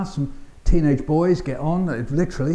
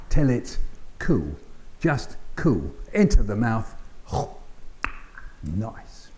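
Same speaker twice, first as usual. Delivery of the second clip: soft, lower, slow performed poem; 4 semitones lower, 4 dB quieter, slower than usual. Acted. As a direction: act out blowing on hot potato. Repeating the poem's refrain.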